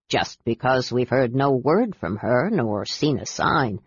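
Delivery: low, serious warning from the ship's captain; captain gravely warning the knights of the sea goddess. Acted. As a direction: speak gravely, like a superstitious old captain. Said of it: "said the captain gravely".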